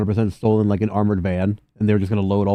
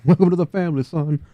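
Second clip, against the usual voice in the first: laughing welcome; 7 semitones higher than usual. Acted. Laughing echo of a welcome line.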